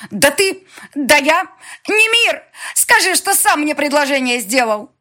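very high, loud flustered indignation; sputtering shriek. Acted. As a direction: choke on outrage. Dema sputters, appeals to Nemir.

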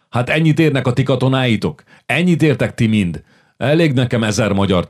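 king's furious raging outburst; furious shouting king. Acted. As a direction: hurl contempt at the princes. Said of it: "üvöltött Zsigmond".

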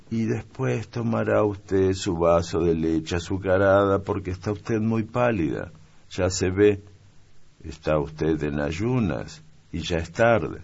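a caring little maid fussing over her mistress; young maid. Acted. Narrator voices the young maid. (criada niña, voz más aguda y solícita)

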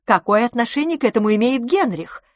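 high, baffled protest; bewildered, exasperated question; indignant cry. A narrator's reading. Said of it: "вскричала мисс Петтигрю".

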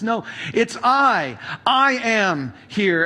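slow, steady, reassuring; slow calm Jesus reassuring terrified disciples; calm reassurance. Retold or imitated. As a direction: settle their fear with each word. Jesus calming frightened disciples on water.

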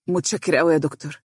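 quick, mildly grateful thanks. A narrator's reading. Young lawyer thanking his boss, grateful. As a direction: thank him sincerely but simply. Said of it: "قال فارس بامتنان".

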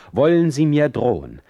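put-on offended young visitor turning on his host in anger; with understandable anger. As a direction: fire back angrily at the insult. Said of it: "mit verständlichem Zorn".

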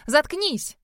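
резкий окрик, выше обычного; рявкнуть, чтобы замолчал; рявкнула. A narrator's reading. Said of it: "рявкнула я на него". (выше и резче, как окрик)

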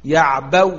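يعبو stopped on a still waw, lips rounded silently after; ishmam on waw. Shown as a demonstration. Teacher demonstrates ishmam, يعبو stopped on w with rounded lips. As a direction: say يعبو ending aw, adding only unvoiced lip rounding. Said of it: "ضممت الشفاه، الإشمام".

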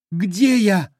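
lightly voiced stranger, lost; questioning voice. A narrator's reading. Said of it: "вопрошал один".

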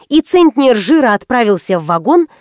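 ordinary delivery

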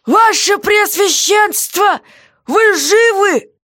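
high, very slow worried call; jailer's voice, slow and pleading; anxious jailer. Acted. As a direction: call out drawn-out, fearing she's dead. Guard calls anxiously.

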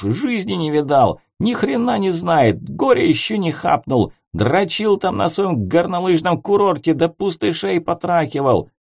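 put-on high drunken taunting rant; belligerent drunk. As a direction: sneer drunkenly. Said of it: "снова барагозил Воронцов".

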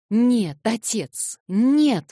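high, loud anguished protest; cry out. A narrator's reading. Son cries out to his father in loud protest. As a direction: Alyosha bursts out to stop his father. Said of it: "вскричал Алёша".

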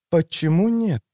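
lightly drawled reply. A narrator's reading. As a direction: stretch the words out coolly. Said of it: "протянула Рукет".

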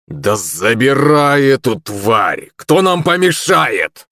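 put-on a swaying drunk picking a fight; blurted drunk. A narrator's reading. Staggering drunk taunts the maids, blurted. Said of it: "резко выпалил третий".

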